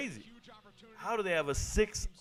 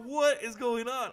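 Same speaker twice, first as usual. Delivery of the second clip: baffled disbelief; 7 semitones higher than usual. Retold or imitated. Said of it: "I'm sitting over here going".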